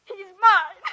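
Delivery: loud, slow and triumphant; possessive outburst. Acted. Amy crowing to Ella that he's hers. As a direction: claim him, loud and slow.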